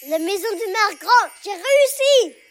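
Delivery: triumphant cry. Acted. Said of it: "s'écrie la petite".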